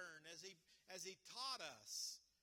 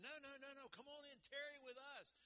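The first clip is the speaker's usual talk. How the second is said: pleading invitation; 5 semitones higher, faster than usual. Retold or imitated. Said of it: "They said".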